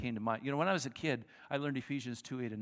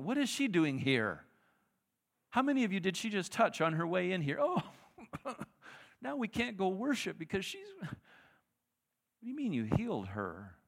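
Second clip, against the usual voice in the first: louder, higher, scandalized grumbling; indignant crowd; 6 semitones higher, 4 dB louder than usual. Acted. Crowd grumbling at Jesus about the woman, scandalized. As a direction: gossip about her, scandalized. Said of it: "the crowd is going".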